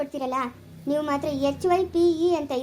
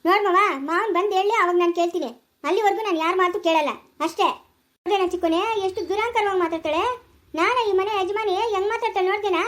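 high-pitched indignant complaint; indignant quarrel; 4 semitones higher, 3 dB louder than usual. Acted. Mistress of the house complains of disrespect, indignant. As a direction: argue back, voice pitched up.

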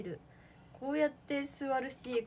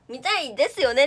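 intended line; 10 dB louder than usual. Retold or imitated. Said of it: "って言ったつもりなんだけど".

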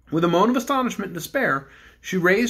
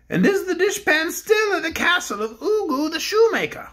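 a higher, grand royal voice; the Bear King addresses the cook; kindly Bear King; 10 semitones higher than usual. Acted. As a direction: speak as a gentle storybook king. King asks.

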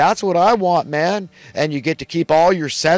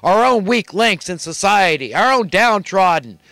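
angry rant; 4 semitones higher than usual. Real, not acted. Ranting at Schumer.

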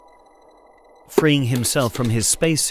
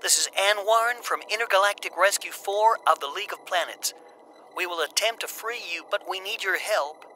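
formal comms voice; 8 semitones higher, 4 dB quieter than usual. A narrator's reading. Anne speaks over comms.

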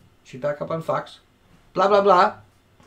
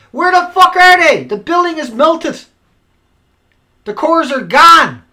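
angry yelling; 6 semitones higher, 8 dB louder than usual. Real, not acted. Raging at media idiots over the melted building, furious shouting. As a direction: bellow each point in outrage. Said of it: "I'm not yelling at you".

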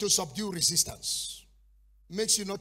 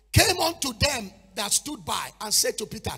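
1 preaching shout; 4 semitones higher, 7 dB louder than usual. Real, not acted. Preacher building up.

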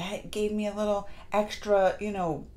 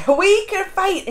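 laughing repeat; 8 semitones higher, 10 dB louder, slower than usual. Real, not acted. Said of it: "repeat with laugh".

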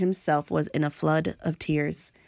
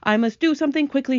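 bouncy, high and loud storybook verse; comic verse recital; 8 semitones higher, 5 dB louder than usual. Acted. Reader performs a silly rhyme for class, lively recital. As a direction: punch out the rhyme, pitched up.

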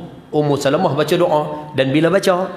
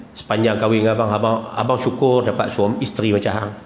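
sincere husband; 3 semitones lower than usual. Retold or imitated. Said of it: "Dia cakap direct macam tu".

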